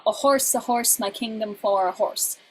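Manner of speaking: each horse lands on a beat; "horse" given the stressed beat all three times. Shown as a demonstration. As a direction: lean on every horse. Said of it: "example of use of prosodic stress".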